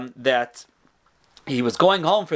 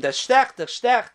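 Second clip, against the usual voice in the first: mock cry of pain; 5 semitones higher than usual. Old rabbi crying out as the sock goes on, mild mock yell. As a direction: imitate an old rabbi's pained cry, pitched up. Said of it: "and again he screamed".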